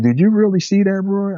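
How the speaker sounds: high-pitched questioning; retold disbelief. Boss asking employee if he truly saw it, retold disbelief. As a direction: act out the boss doubting his story.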